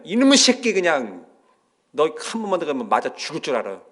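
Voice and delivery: mock angry shout at the kid; scolding mother. Mother scolds the child in the car, mock angry. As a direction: yell at the child, threatening. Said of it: "이렇게 얘기했거든요".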